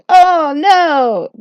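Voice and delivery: high, nervous backpedalling; flustered pleading. Acted. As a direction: scramble to explain, pitch climbing in a panic. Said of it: "So I was like".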